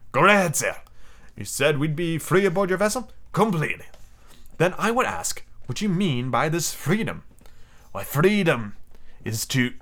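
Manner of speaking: a composed sea captain laying down terms; a lightly voiced stern commander. The captain sets his terms for the prisoner, lightly voiced.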